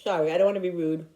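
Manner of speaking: talking through a mouthful of food; mouth full. Real, not acted. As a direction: speak with your mouth full. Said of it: "I'm talking with my mouth full".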